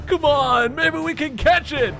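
high, loud eager yell. Acted. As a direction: call them to run after it. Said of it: "Ash yells".

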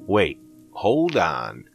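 high, panicky disbelief; alarmed high voice. Acted. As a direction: pitch way up in frightened protest. Narrator alarmed at friend.

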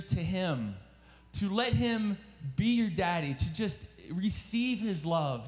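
earnest sermon appeal, lifted and steady; preacher's call to the congregation; preaching appeal. Acted. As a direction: plead with the young people to come near to God.

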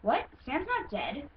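lightly acted audition read, American accent; a touch of surprise, lightly voiced character; Jasper. Auditioning for a horse character, lightly acted American voice. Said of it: "I'm gonna try out for Jasper again".

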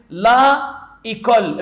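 "لا إيكول" with the vowels apart; two separate words. Shown as a demonstration. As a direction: keep a break between "لا" and "إيكول". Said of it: "عاوزين ننطقها أسهل وأسرع". (انطق "لا إيكول" كلمتين منفصلتين)

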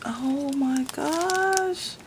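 high, very drawn-out wonder; real awestruck coo; delighted amazement. Real, not acted. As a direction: stretch it out, rising in pitch. Delighted at the next gift.

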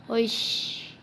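unvoiced breathy curse; cursing under breath. Real, not acted. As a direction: hiss it to yourself. Cursing at game boss. (숨죽인 욕)

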